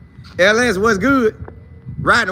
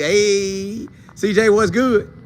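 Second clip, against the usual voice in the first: ordinary talk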